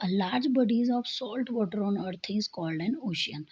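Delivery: slow, deliberate reading of an English definition; slow textbook reading. Acted. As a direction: read each word out slowly for the class.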